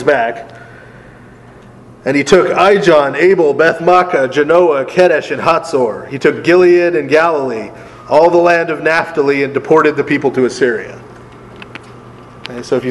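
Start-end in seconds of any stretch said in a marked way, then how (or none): 2.0-11.0 reading aloud, lifted and steady; scripture reading. Acted. Teacher reads Kings to the class, scripture-reading voice. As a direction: read the verse out clearly to the group.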